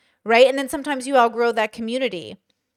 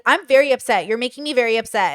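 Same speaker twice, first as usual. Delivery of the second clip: louder, mock family argument; arguing, upset; 5 dB louder than usual. Relatives arguing over politics, retold upset complaint. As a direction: push it out like a complaint. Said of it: "We usually will argue".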